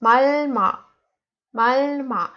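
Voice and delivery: malma as one joined word; read together. Shown as a demonstration. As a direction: link both syllables of malma. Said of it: "together we read it like".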